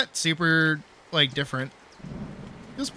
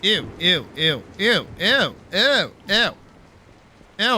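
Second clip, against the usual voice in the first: disgusted; 4 semitones higher, 6 dB louder than usual. Real, not acted. Disgusted by the outfit colour.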